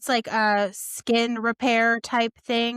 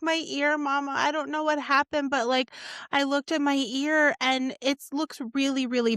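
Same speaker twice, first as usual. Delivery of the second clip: higher, lightly voiced worried little girl; a light take on her scared kid saying her ear looks bad; mother lightly mimics her daughter's worried voice; imitating upset daughter; 4 semitones higher than usual.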